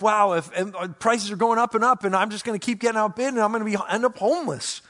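panic-spiral the prices; anxious homebuyer fretting aloud; worried. Retold or imitated. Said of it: "that worry comes".

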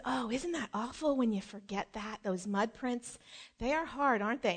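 soft, mildly sympathetic imitation; not mad. Mother to daughter cleaning mud prints, soft and not mad. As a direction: commiserate quietly, without blame. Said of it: "I'm not mad that you did it".

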